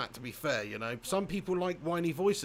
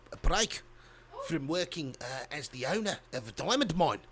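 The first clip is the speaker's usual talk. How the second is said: attempted South African accent. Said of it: "I try and do as many different accents".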